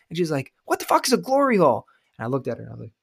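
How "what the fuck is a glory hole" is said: high-pitched incredulous question; mock bewilderment; imitated baffled wife.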